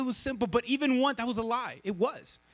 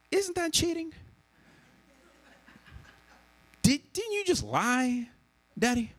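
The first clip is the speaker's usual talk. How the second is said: put-on higher, innocent child question; Josiah's voice; 5 semitones higher than usual. A hint of son Josiah catching his dad's lie, higher. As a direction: ask like a wide-eyed child. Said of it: "and Josiah goes".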